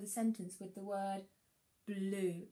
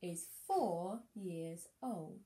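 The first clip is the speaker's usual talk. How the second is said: slow reading; slower than usual. Shown as a demonstration. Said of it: "Here's my sentence".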